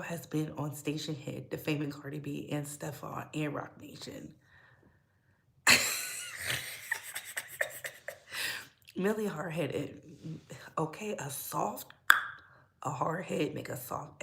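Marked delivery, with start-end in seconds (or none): 5.6-8.6 a very high, breathy shriek of a laugh; real laugh shooting way up in pitch. Real, not acted. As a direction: let out a squealing cackle. Laughs after calling out Milagro.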